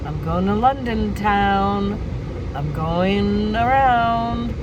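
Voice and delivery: high, bright-eyed fake travel-vlog greeting, slowing into a lazy singsong on London town; mock vlogger voice. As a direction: play an over-cheerful vlogger before snapping back to yourself. Mock cheery travel vlog intro.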